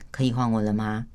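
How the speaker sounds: even, level tone, no edge in it; calm steady ask. Shown as a demonstration. Wife calmly asking her husband for her turn, steady and even. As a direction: ask gently for a turn to speak. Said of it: "啊，我声音就是像这样".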